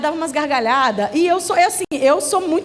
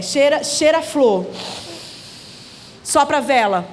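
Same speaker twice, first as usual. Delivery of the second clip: calming. Retold or imitated. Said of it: "Vamos acalmar".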